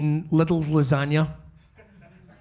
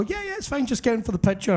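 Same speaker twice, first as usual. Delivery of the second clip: casual Roddy Piper reassurance; 5 semitones higher than usual. Retold or imitated. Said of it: "he'd take off his watch and go".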